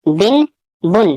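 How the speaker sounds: بن drawn out very slowly, the n held in the nose; teacher slowly modelling بن; slow drilled syllable. Shown as a demonstration. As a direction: stretch بن slowly so the noon sound carries. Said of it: "سبھی میں نون ساکن کی آواز آ رہی ہے".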